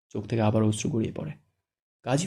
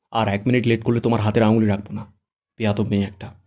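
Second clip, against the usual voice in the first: louder harsh scolding; furious groom scolding, louder; angry scolding; 5 dB louder than usual. Acted. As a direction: bark orders at the bride. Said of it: "রেগে ধমকে বলে".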